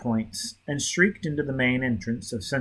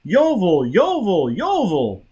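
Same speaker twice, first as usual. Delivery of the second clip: loud repeated shouts, rising higher; shouting a name; 7 semitones higher, 6 dB louder than usual. A narrator's reading. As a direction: yell the name over and over. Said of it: "He continued his yelling".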